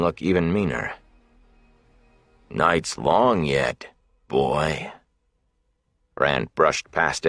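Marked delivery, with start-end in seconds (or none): 2.5-4.9 mock the boy and his sword; taunting thug. Big man taunts Rand about his sword, jeering.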